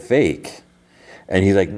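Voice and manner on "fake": higher-pitched, mock-incredulous echo; questioning echo. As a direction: throw the word back as her pointed question. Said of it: "And she's like".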